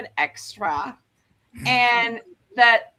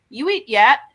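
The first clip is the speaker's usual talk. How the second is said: clipped Daegu-style blunt question, a bit louder; blunt and short; 3 semitones higher, 7 dB louder than usual. Shown as a demonstration. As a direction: bark it short like a rapper. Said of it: "make Suga sound very blunt and short".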